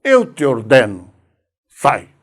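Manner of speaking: slow, measured command; Jesus, peremptory. Acted. Jesus ordering a spirit out, peremptory. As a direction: order it out firmly, word by word. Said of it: "Jesus foi sempre pere-, perentório".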